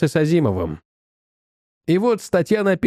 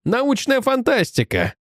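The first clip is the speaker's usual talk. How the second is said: exclaiming; 6 semitones higher, slower than usual. Acted. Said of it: "воскликнул я".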